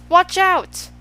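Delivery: high, loud alarm call; yelled warning. A narrator's reading. Milo warning of the crash, yelling. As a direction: yell to stop an accident. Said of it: "and then he yelled".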